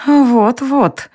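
a queen hissing at her husband. A narrator's reading. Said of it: "прошипела Алиста". (королева шипит на мужа)

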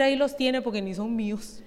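hushed sheepish reply; embarrassed aside. Pretend. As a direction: confess it quietly so no one hears. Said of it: "Y usted dice, de ahí, sin poder decir".

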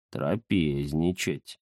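«Трапезничать» медленно и низко, смакуя; просмаковать «Трапезничать». Acted. Первое слово перед повтором. (Захар смакует «Трапезничать»)

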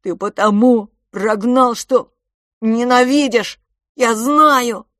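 loud, slow, high near-sob; boy barely holding back tears, accusing his twin. Acted. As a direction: force words past a sob. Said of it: "едва сдерживая рыдание".

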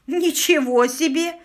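slow, high, loud gasp of wonder; astonished, drawn-out exclamation; exhaled amazement. A narrator's reading. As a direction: marvel aloud, stretching the words. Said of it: "выдохнул Арчи при виде необычного зрелища".

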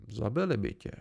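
"Zabili by tě" as a statement tipping into a question; half-questioning. A narrator's reading. Chronicler doubting Bast's boast, "Zabili by tě" half asked. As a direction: let "Zabili by tě" end slightly like a question. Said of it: "Jeho tón z té věty tak trochu dělal otázku".

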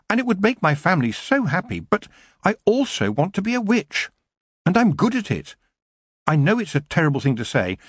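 high, pleading, understated distress; near tears. A narrator's reading. Young witch torn between love and witchcraft, tearful. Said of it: "feel the tears beginning".

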